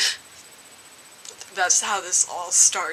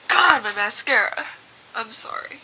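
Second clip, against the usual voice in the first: tearful complaint; 6 dB louder than usual. Real, not acted. Crying, complaining about mascara.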